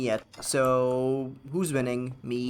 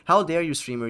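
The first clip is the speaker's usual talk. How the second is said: mock outrage; 3 semitones higher, 5 dB louder than usual. Streamer mocking salty chat, hammed-up outrage. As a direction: ham up a chatter's fake outrage. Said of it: "salt in this chat".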